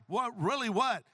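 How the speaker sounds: mock-eager, pressing for the answer; excited. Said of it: "He's excited".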